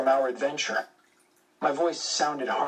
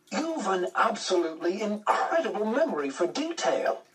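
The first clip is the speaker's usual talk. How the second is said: English aristocrat; 6 semitones higher than usual. A narrator's reading. English aristocrat agent speaks.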